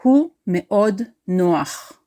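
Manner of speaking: הוא מאוד נוח said quickly and fluently like a native; הוא מאוד נוח quick native Hebrew. Shown as a demonstration. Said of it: "He is very easygoing".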